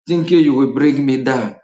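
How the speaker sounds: defiant chuckle around the words; scornful laughing. Real, not acted. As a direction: laugh at the haters while talking. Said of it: "You see me laughing?".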